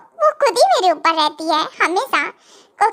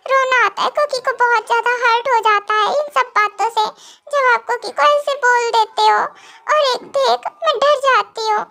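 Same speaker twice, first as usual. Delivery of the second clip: clingy teary sulk; 3 semitones higher than usual. Acted. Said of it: "अब कैसे चिपक के रो रही है".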